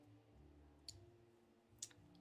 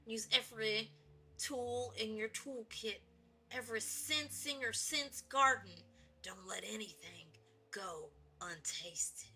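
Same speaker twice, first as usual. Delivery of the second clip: granddaddy's saying; 4 semitones lower, 3 dB quieter than usual. Pretend. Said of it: "Granddaddy always said".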